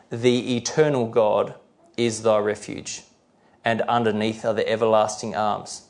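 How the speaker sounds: slow, deliberate scripture quotation; measured Bible reading with pauses between phrases; slow, clear reading. Real, not acted. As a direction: read the verse out slowly and clearly. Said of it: "I'll try to read them slowly and clearly".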